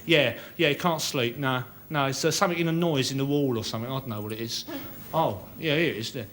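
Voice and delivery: a tenant ringing the architect at two thirty in the morning; phone call. Pretend. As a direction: ring up the architect at night, insistent.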